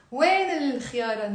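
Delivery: وين الخيارة run together as wayn-il-khyara; liaison. Shown as a demonstration. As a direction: link وين straight into the article, L heard. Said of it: "Notice the liaison".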